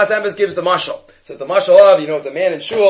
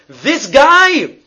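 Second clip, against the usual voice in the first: high, loud contempt; scornful man; 9 semitones higher, 5 dB louder than usual. Retold or imitated. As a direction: sneer at this guy. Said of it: "he says".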